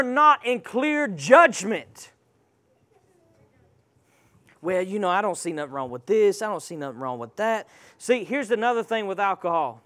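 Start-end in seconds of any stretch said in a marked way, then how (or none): 4.6-7.7 lightly imitated shrugging excuser, quick and low; mock excuse-maker. Preacher mimics someone seeing nothing wrong, lightly mocked nonchalance. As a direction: rattle off a casual excuse, dropping away softer.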